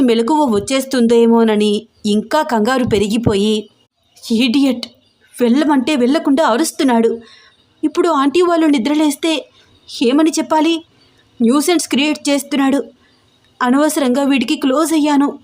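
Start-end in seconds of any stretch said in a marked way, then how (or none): 4.3-15.4 fast, higher, angry muttering to herself; irritated and rushing, pitched higher. Acted. Raksha annoyed at Rocky's noise, fast and angry. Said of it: "కోపంగా బయటికి వచ్చింది".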